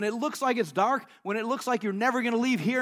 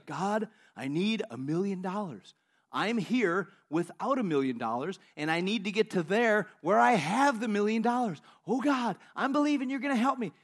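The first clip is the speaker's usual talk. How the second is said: praying man. Retold or imitated. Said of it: "So he's praying".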